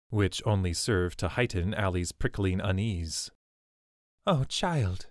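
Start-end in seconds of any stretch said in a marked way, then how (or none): 4.3-5.1 breathed. A narrator's reading. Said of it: "Swidona breathed".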